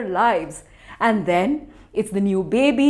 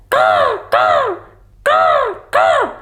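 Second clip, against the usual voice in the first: crow caws; 10 semitones higher, slower than usual. Acted. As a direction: caw like crows in flight. Crows calling while flying.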